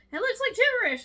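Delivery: high, loud mock-baffled quote; baffled Jules. Imitating the clueless sheriff at a computer screen, high baffled voice. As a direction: voice her squeaky-high, exclaiming in confusion. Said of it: "She's like".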